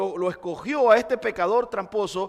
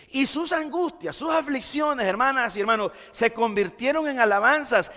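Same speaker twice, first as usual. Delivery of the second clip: fervent preaching; 4 semitones higher than usual. Real, not acted. Preacher rising to fervor.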